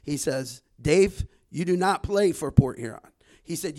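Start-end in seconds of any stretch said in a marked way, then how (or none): 0.8-3.0 put-on a light Arab American accent on his old coach's words. Quoting Coach Saleh to the podcast hosts, with a light Arab American accent. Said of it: "I'm gonna use my best Arab American accent here".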